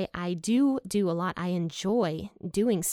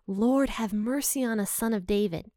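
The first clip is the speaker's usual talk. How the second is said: slightly raised, pleading call; mild crying out; 2 semitones higher than usual. Retold or imitated. Blind men calling to Jesus for mercy, mildly crying out. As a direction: call out for mercy without shouting. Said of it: "they start crying out to Jesus".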